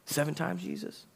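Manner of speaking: high, soft voice climbing on "Jesus"; mock incredulous question. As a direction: ask it small and high, rising to the end. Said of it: "trying to say seven's a lie".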